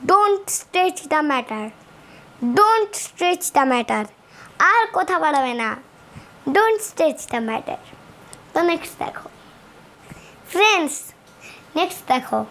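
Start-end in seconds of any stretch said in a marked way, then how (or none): 0.1-4.0 Don't stretch the matter said word by word, very slowly; slow classroom model; slow English demo. Shown as a demonstration. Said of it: "এটাকে ইংলিশে কেমনি করে বলবে". 6.5-7.8 Don't stretch the matter said word by word, very slowly; slow classroom model; slow English demo. Shown as a demonstration. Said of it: "এটাকে ইংলিশে কেমনি করে বলবে".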